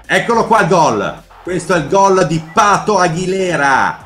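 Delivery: breathless italian goal commentary. Acted. Showing the goal on video.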